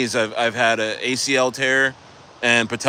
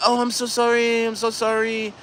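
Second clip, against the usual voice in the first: fake Asian accent; 9 semitones higher than usual. Masseuse apologizing to screaming client, fake Asian accent. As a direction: imitate a masseuse's put-on Asian accent, high-pitched. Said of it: "talking like an Asian masseuse".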